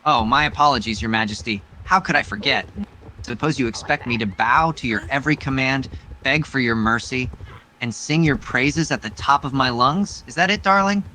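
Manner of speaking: a hint of smug flirtation; teasing suitor. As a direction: tease her like a smug courtier. AI lover voices teasing hero.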